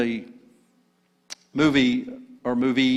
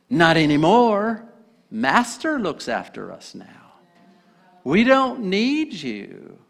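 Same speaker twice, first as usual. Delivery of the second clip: Smeagol defiant; 6 semitones higher, slower than usual. Acted. Smeagol rejects Gollum.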